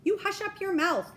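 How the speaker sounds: mighty king howling down at Mac; furious howl. A narrator's reading. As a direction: silence him with rage. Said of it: "howled the mighty King Yertle".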